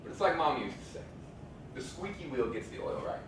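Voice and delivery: rhythmic spoken-word delivery that builds and then rushes; spoken word poem. Acted. A comedian turns the show into a spoken-word poem performance.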